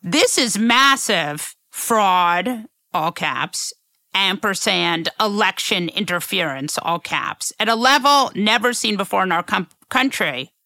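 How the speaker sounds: deadpan reading with spoken punctuation; dictating. Shown as a demonstration. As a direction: dictate it, naming each comma. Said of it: "important to read it".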